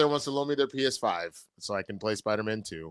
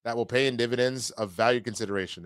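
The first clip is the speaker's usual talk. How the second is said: Jim Cramer. Retold or imitated. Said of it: "To quote Mad Money's Jim Cramer".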